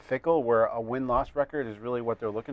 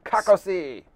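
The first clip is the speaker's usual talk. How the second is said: Yugoslavian pronunciation; 4 semitones higher, slower than usual. Shown as a demonstration. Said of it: "I know Yugoslavian".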